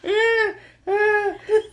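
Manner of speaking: high, loud, laughing and crying; laughing through tears. Real, not acted. Laughing at her friend's funny gift. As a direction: shout it through helpless laughter. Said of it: "the most animated she's been".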